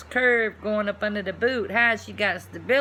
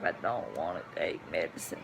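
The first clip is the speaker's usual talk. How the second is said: mock reluctant voice; 7 dB quieter than usual. Mock childish voice.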